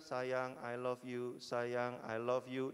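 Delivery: low, even robot voice saying I love you; robot partner. Pretend. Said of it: "dia akan bangun dan bilang". (suara robot yang rendah dan datar)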